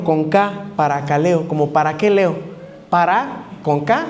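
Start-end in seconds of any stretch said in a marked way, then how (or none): 0.8-1.5 paracaleo stressed on its e. Shown as a demonstration. Preacher repeating the Greek word, stress on the e in paracaleo. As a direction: say paracaleo, accenting the e before the final o. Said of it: "acento en la E".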